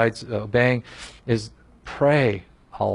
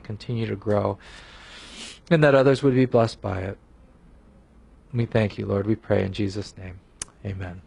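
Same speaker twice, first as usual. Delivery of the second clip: closing prayer; 2 semitones lower than usual. Real, not acted. Preacher praying to Jesus for help to love, earnest prayer. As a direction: pray humbly on behalf of the group.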